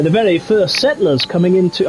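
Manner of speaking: attempted English accent, uncertain which; muddled put-on English accent; unidentifiable English accent. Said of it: "I don't know what accent that is".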